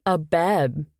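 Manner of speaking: talking through a mouthful of food; mouth full. Acted. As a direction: say it round a bite. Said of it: "I said with my mouth full".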